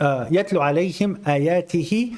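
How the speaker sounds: fast, chanted Quranic recitation. Shown as a demonstration. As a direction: recite the verse in a rapid chant. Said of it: "I'm reading the Quran".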